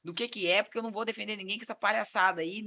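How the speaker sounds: retold firm telling-off; pressing the client. Lawyer ordering client to drop nonsense, firm retold scolding. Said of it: "eu já apertei ele".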